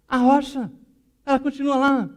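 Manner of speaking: high, loud wail of frustration; exasperated protest. Retold or imitated. Woman telling Jesus the rock remains, high and exasperated. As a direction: point out the obvious, loudly aggrieved.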